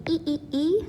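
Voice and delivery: "E" said three times as the ee in ski; isolated ee sound. Shown as a demonstration. Teacher picking the vowel out of ski, repeated ee. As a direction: repeat a clean "E" like the end of "ski". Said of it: "think of the word ski".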